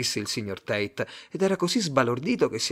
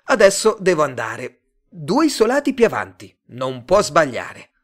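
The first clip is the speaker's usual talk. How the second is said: louder, higher friendly passer-by; Joe's voice; 6 semitones higher, 9 dB louder than usual. Acted. Joe to Simon, giving directions, louder and higher. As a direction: send him off cheerfully, a bit raised.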